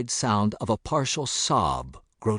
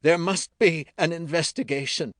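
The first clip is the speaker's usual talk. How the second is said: faint distant voice; 8 semitones higher than usual. A narrator's reading. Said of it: "a faint voice rang out from inside the doorway".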